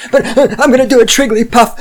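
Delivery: high, fast, loud fake meltdown; laugh-tinged parody of a triggered tantrum; mock hysteria.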